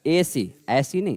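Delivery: teacher demonstrating the wrong ऐसी, with a plain ए; wrong vowel shown. Shown as a demonstration. Teacher to class, demonstrating the wrong ऐसी. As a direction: shows the wrong sound first, the vowel flattened. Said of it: "ऐसी की तैसी नहीं करना".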